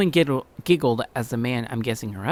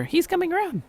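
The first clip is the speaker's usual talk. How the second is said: much higher, tender woman's voice; kindly older woman. Shown as a demonstration. The woman pitying the boy on the floor. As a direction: coo with pity over a hurt boy. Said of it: "redo in woman voice".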